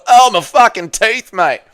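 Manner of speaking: high, loud mock cry of pain; comic yelp of injury, easing at the end; Robert impression. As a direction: play a hammed-up victim just hit on the head. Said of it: "dropping a piano on Robert's head".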